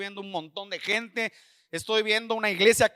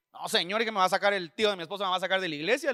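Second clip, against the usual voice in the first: quick, lower plea against the order; worried protest; 3 semitones lower, faster than usual. Retold or imitated. Preacher tells the Lord he will be thrown out, worried protest. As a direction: rush through a retold objection.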